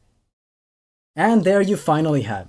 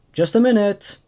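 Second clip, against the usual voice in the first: yelled back; 2 semitones higher than usual. Acted. Dad calling through the bathroom door to his daughter, yelled. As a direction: call out from the shower, mid-yell. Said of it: "My dad yelled back".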